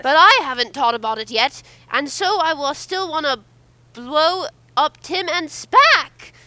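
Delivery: put-on a young Master savoring his threat; kid villain line reading. Shown as a demonstration. Voicing the kid Master as a friend suggested, slowing into glee. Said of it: "I think you should say".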